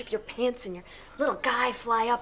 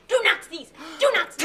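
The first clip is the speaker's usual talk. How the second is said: pleading; 6 semitones higher, 7 dB louder than usual. Acted. Begging him.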